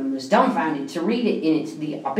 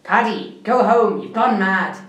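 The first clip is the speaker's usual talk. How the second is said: mock shout; 4 dB louder than usual. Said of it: "The foreman shouts".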